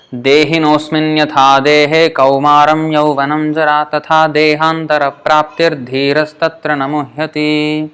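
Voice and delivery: steady chanted reading of the verse; Sanskrit verse recitation. Shown as a demonstration. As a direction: recite the shloka evenly.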